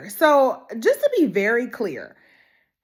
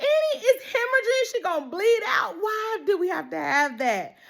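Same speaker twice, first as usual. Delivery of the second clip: distressed; 10 semitones higher than usual. Retold or imitated. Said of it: "So I was like".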